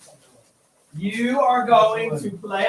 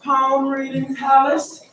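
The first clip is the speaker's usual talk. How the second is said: fortune teller announcer; 2 semitones higher than usual. Acted. Teacher announcing a fortune-teller booth.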